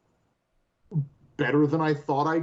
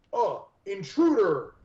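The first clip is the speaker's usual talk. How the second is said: higher-pitched mock alarm; lightly voiced startled cultist; 5 semitones higher than usual. Player acts out the man who saw them, mock alarm. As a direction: lightly mimic a guard spotting someone. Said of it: "like, he turns, goes".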